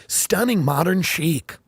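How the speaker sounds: slow, gushing listing voice; hammed-up realtor copy; mock real estate blurb. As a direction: sell the house dreamily. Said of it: "write real estate blogs ... and go".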